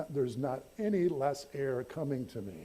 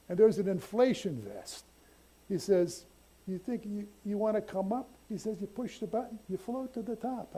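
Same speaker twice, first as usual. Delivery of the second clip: instructor voice; 8 semitones higher than usual. Retold or imitated. Instructor explaining inflation vest.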